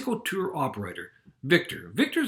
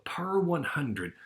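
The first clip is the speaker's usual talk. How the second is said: slow emphasis; much slower than usual. Shown as a demonstration. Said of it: "teacher stresses the key phrase".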